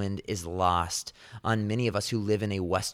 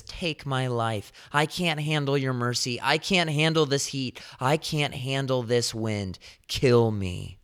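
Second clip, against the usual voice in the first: higher, complaining plea to God; whining Jonah; 3 semitones higher than usual. Retold or imitated. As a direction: whine like a sulking prophet who wants to die. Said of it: "whining, complaining".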